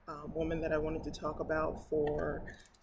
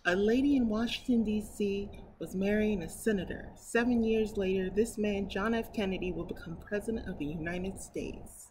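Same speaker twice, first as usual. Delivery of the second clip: story narration; 2 semitones higher, 4 dB louder than usual. Acted. Reading a picture book to her viewers, storybook narration. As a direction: read it aloud to children.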